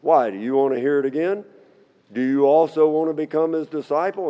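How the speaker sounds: lightly acted arrogant challenge; a touch arrogant. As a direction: read it as a cheeky comeback to questioners. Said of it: "this guy's getting pretty arrogant with them".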